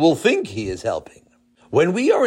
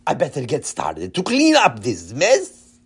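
put-on Israeli accent. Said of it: "in his heavy Israeli accent".

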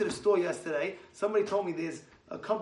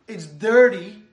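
much louder, stressing "dirty"; 11 dB louder, much slower than usual. Acted. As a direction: exclaim it in disgust.

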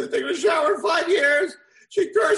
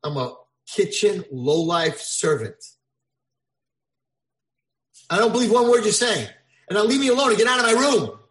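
angry dismissal; 2 semitones higher, 6 dB louder than usual. Acted. Prince angrily rejects old man.

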